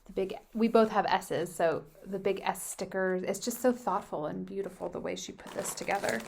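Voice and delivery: talking while crunching chips. Real, not acted. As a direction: mouth full of crunchy snacks. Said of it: "sorry for the crunching".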